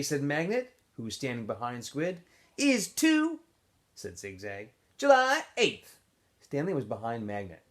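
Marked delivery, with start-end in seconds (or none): 2.6-3.4 much higher, louder whiny protest; Zigzag protesting. A narrator's reading. Zigzag to Squid in the breakfast line, high whiny protest. 5.0-6.0 much higher, slow, stubborn; Zigzag insisting. A narrator's reading. Zigzag to Magnet, insisting on his birthday, high and slow.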